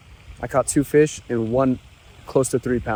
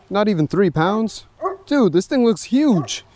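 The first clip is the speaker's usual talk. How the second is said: disbelief; 8 semitones higher than usual. Real, not acted. Scale reads under three pounds.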